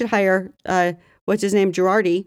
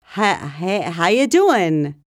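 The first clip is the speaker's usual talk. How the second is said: slow drawn-out talk-show "how you doing"; Wendy Williams; much slower than usual. Retold or imitated. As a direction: stretch the greeting like a talk-show host. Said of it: "That's Wendy Williams".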